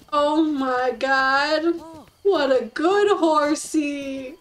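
slow, drawn-out praise of what a good horsey; slow lovestruck praise; doting coo. Real, not acted. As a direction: gush over the horse like a pet. Cooing at new horse.

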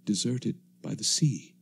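steady, measured radio-drama narration; story narration. A narrator's reading. Narrator recounting the ruined land to listeners, measured and grave. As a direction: tell it like a survivor recalling the ruins.

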